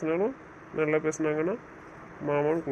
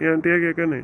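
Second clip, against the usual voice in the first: louder indignant repeat; 7 dB louder than usual. Acted. Husband to wife, louder indignant repeat. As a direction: raise your voice on the repeat, offended.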